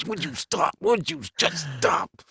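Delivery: high, slow, exasperated plea; nagging girlfriend. Retold or imitated. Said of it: "My girlfriend's always going".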